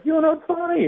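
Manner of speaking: high, called-out jeer; a mild mock heckle, pitched high; heckler call-out. Heckler calling out at the comedian, high mock jeer. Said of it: "they'll call out something like".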